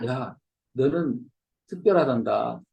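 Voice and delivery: Eli's gentle affirmation. Retold or imitated. Eli telling Punchinello he is special, low and slow. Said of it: "엘리가 한 건 이거예요".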